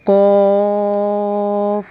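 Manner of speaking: slow throaty कॉफ; heavy qaf. Shown as a demonstration. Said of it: "ये कॉफ है जो हुरूफ़ मुस्तालिया है".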